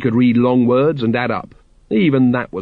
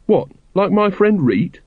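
higher, mildly aghast question; horrified; 9 semitones higher than usual. A narrator's reading. Carrot thinks of his friend, horrified. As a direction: ask it with dawning horror.

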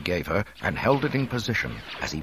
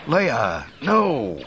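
urgent, louder, higher cry; alarmed cry; 6 semitones higher, 5 dB louder than usual. A narrator's reading. Han rushing to wounded Leia, alarmed cry. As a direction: cry out in alarm, pitch jumping up. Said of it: "he cried".

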